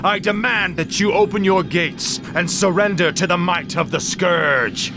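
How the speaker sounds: booming, echoing high death knight voice; a distorted, otherworldly proclamation; ancient rasping undead king. Acted. Death Knight booming demand at gates.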